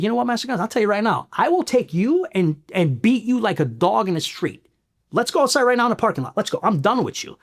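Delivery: reliving the threat, voice high and pushed; retold fight challenge. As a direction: dare him to step outside. Challenging the master gunnery sergeant to fight.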